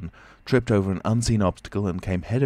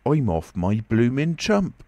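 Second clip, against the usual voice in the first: higher, louder, drawn-out tramp voice; bewildered tramp; 5 semitones higher, 5 dB louder, slower than usual. A narrator's reading. Tramp tells himself he's gone mad, bewildered. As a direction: wail that your wits have gone. Dazed tramp doubts his sanity.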